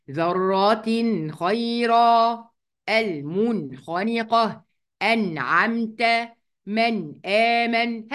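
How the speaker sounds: each example recited slowly with a clear noon; slow recitation of the examples; slow tajweed review. Shown as a demonstration. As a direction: run through the izhar words carefully. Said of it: "يلا بقى نقولهم تاني".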